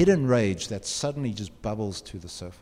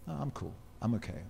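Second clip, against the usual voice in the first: brave brush-off; 10 dB quieter, faster than usual. Retold or imitated. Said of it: "put on this face to you and say".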